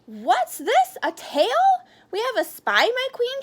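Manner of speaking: high, loud villain's shout; Mister Fudge shouting about a spy. Acted. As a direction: call out to the queen, triumphant. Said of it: "shouted Mister Fudge".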